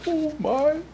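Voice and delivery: high merry chuckle; Santa chuckle, oh my. Acted. Santa chuckling to children, high. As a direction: laugh then marvel.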